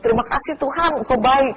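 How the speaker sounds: mild, high mock cry of gratitude; retold cry of thanks. Wife recalls thanking God when her husband revived, mild retold outcry. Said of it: "saya memang sempat menjerit".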